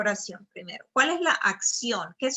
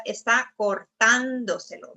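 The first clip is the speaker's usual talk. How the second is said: cortándoselo with the stress on TÁN; stress the accent. Shown as a demonstration. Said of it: "para mantener el estrés de la palabra".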